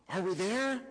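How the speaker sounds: put-on high childlike question; a small girl just waking up; high-pitched kid voice; little girl voice.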